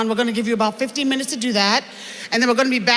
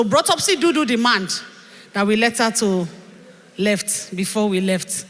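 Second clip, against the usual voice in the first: Chioma voice; 2 semitones lower than usual. Acted. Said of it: "I just need to stop talking like that".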